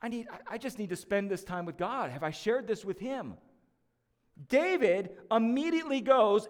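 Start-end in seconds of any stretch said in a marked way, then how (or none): 0.0-3.4 soft, hushed self-talk; inner thought. Retold or imitated. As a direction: murmur it to yourself, a little rueful. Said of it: "and then I think".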